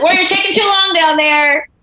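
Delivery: high mock-scolding questions; imitating a suspicious trainer. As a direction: call down the stairs like a drill sergeant. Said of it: "He's like".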